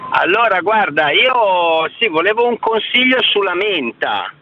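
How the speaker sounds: phone line audio; over the phone. Real, not acted. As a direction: caller on a Bluetooth call. Caller on Bluetooth phone line.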